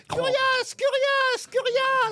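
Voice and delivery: high, strangled sobbing cry; voix étouffée par les sanglots. Acted. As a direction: call his name, choked with sobs. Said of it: "l'appela d'une voix étouffée par les sanglots". (voix étranglée de sanglots)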